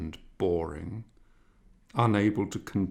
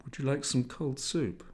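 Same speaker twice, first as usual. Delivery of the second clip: mother's voice; 6 semitones higher than usual. A narrator's reading. Mother offering soup.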